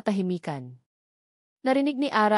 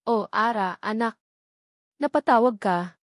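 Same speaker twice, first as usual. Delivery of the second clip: happy mother. A narrator's reading. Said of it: "masayang sagot ni Nanay Nena".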